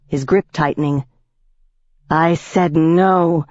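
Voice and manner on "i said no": shouting. Acted. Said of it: "Ivy shouted".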